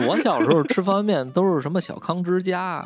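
laughing. Real, not acted. Amused recalling childhood noodles.

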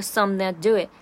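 "some, that do it" with "some" held a little; stretched "some". Shown as a demonstration. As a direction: lengthen "some" before "that do it". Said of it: "要拉得稍微长一点点".

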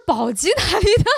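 high, slow disbelieving echo; incredulous echo. Retold or imitated. Echoing the doctor, incredulous.

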